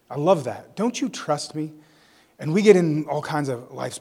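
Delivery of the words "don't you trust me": soft tender question; hushed, kindly asking; gentle question. Acted. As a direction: ask it quietly, like Jesus reassuring his followers. Repeats Jesus' gentle question.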